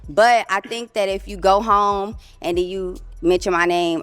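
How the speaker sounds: tipsy, slurred speech; words running together from drink; slurring words. Real, not acted. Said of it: "she's slurring her words".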